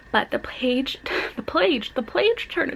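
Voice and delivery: trips over "page", saying "plage" before getting it; tongue-tied stumble. Real, not acted. Stumbling over her own channel name. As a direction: fumble "the page" twice, then land "the page turner". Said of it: "that's my name, and I can't even say it".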